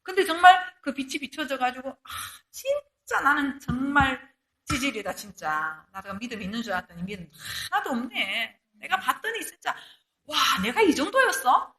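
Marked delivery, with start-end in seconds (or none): 1.9-11.7 mild despair. Retold or imitated. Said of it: "거기에 대해서 절망하는 사람".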